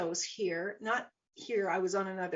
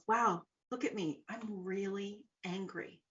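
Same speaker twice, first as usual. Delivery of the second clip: quiet, detached wonder at yourself; calm, curious acknowledgement; curious self-observation; 6 dB quieter than usual. Shown as a demonstration. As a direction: notice your own anger softly, without acting it. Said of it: "difference in the way I say that".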